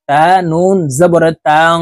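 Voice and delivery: তাং: the নুন hidden in the nose, held with a hum; nasal ghunnah. Shown as a demonstration. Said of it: "নাকের ভিতরে লুকাইয়া গুন্নার সহিত পড়ব". (তাং শব্দে নুন নাকের ভিতরে লুকিয়ে গুন্নাহ)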